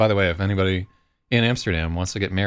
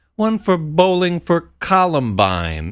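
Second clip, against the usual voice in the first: exaggerated American accent, very high-pitched and loud; 11 semitones higher, 6 dB louder than usual. Retelling a man's reply that made everyone laugh, exaggerated american accent. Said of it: "in this like exaggerated American accent".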